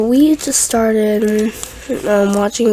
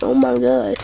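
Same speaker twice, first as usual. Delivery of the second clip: much lower hushed gasp; low stunned dad; 10 semitones lower than usual. Retold or imitated. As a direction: drop low in shock. Dad with tears in eyes.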